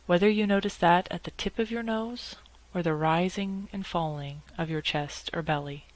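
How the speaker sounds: calm meditation guide with long pauses between phrases; unhurried, measured guidance, leaving space after each instruction; guided meditation. Acted. Lawyer guiding colleagues upset by nasty emails, calm guided meditation.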